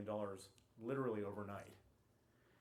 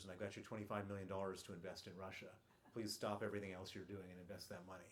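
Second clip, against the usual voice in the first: calm, even retelling of the partner, a bit softer; calmly; 2 semitones lower, 4 dB quieter than usual. Retold or imitated. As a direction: relay his words in a calm, unhurried way. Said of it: "he says very calmly to me".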